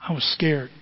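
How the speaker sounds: whispered confession, voice gone. Real, not acted. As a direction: breathe the words out with no voice. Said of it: "repeats the confession in a whisper".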